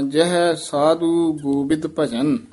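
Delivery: slow, ਗੋਬਿੰਦ fully sounded with nasal; clear ਗੋਬਿੰਦ. Shown as a demonstration. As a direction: say ਗੋਬਿੰਦ slowly and completely. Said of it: "ਗੋਬਿੰਦ ਉਚਾਰਨ ਕਰਨਾ ਹੈ".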